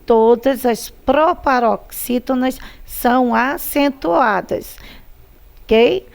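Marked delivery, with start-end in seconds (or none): 0.0-4.8 slow rule recital. Shown as a demonstration. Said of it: "Você viu que todas".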